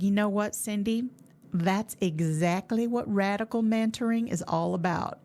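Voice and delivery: light Southern drawl as Mark; a mild put-on drawl imitating a friend; an affectionate, hammed-up imitation of a Southern gentleman; Southern drawl impression. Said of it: "that was probably a terrible impression of Mark".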